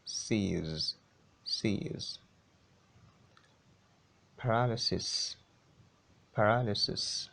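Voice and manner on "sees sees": "sees" with a long, soft final z; buzzed ending. Shown as a demonstration. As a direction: isolate "sees", softly, ending in z.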